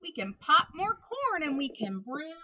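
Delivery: very high squeaky mouse voice. Acted. Mouse comforting the sad bear, high squeaky voice.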